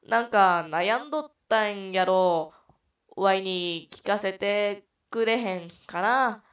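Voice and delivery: loud, drawn-out put-on Kansai dialect; fake Kansai accent. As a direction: persuade loudly in a hammy Kansai accent. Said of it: "自費関西弁で説得する様子を演". (大声でゆっくり説得する似非関西弁)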